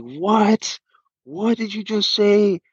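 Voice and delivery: retold drunk partygoer, hammed-up rage; mock angry drunk. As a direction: play the drunk guy exploding in disbelief. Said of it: "And then he got so mad".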